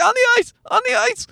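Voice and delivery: put-on very high, squealing kid tantrum; mock tantrum, pitch shot way up; toddler throwing a fit. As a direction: imitate a small child's shrieky insistence. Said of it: "And he threw a fit".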